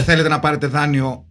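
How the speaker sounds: a mock cold-call offer; a hint of an eager bank caller; pleading loan caller. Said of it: "σε παρακαλούσαν να πάρεις δάνειο".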